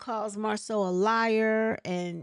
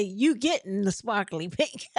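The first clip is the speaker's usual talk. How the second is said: laughing. Retold or imitated. Mocking retort while laughing.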